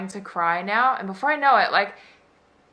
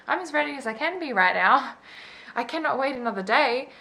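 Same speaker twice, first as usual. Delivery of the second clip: higher-pitched, exasperated retort; frustrated insistence; 6 semitones higher than usual. Retold or imitated. Patient pleading with the surgeon not to postpone, frustrated insistence. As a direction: retell a patient insisting on being heard. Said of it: "I was getting so frustrated".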